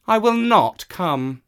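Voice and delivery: high, loud proud cat; a cat who answers to no one; haughty cat. Acted. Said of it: "said the cat".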